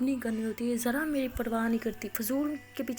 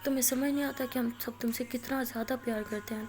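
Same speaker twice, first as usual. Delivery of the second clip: retold crying plea. Aliya crying alone in the washroom, lightly tearful plea. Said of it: "رونے لگ جاتی ہے".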